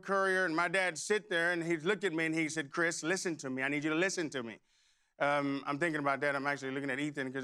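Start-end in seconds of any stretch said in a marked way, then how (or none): 2.7-4.6 lower, lightly voiced fatherly instruction; a hint of a dad urging attention; earnest father. Father instructs teen son at the wheel, earnest.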